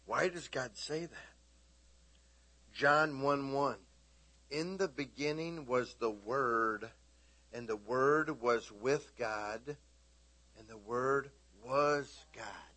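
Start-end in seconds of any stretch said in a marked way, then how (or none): 4.5-12.7 slow, solemn reading; scripture reading. Acted. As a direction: read each phrase with weight. Scripture read slowly.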